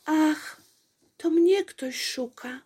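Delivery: light up with glee, someone's calling you; delighted. A narrator's reading. Apolejka hearing a voice calling her name, delighted. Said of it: "ucieszyła się Apolejka".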